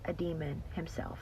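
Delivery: an eerie hush naming the demon; hushed ominous whisper. Real, not acted. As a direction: whisper it like a dark secret. Ominous reveal in a story.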